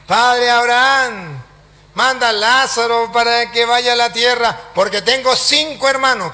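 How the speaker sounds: a hint of an imploring call; pleading rich man. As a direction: plead from afar, lightly acted. Voices rich man pleading to Abraham.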